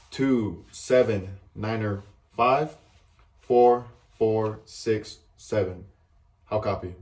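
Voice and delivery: loud, slow radio readout of numbers; over walkie talkie. Shown as a demonstration. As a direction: read the grid clearly over the net. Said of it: "it should go as such".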